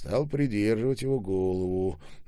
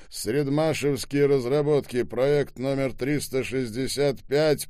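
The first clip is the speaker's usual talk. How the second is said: raised, higher voice; loud announcement; 5 semitones higher, 5 dB louder than usual. A narrator's reading. Ребров continuing his report over the yelling, loudly. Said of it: "громко произнёс Ребров".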